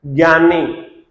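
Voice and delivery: ज्ञानी said slowly as "gyani", hard g; common mispronunciation. Shown as a demonstration. Teacher showing students the common error, slow "gyani". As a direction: say ज्ञानी with an opening "gy". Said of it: "सही उच्चारण ज्ञानी तो नहीं है".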